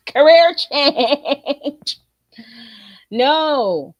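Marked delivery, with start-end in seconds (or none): 0.1-2.0 drawn out. Acted. Repeated punchline, drawn out.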